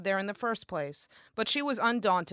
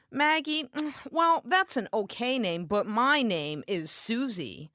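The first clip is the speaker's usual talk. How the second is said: sassy stylist. Retold or imitated. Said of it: "my stylist demands".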